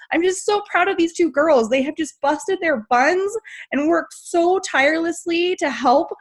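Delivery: fighting back happy tears; getting emotional. Real, not acted. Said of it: "Oh my gosh, I'm getting emotional".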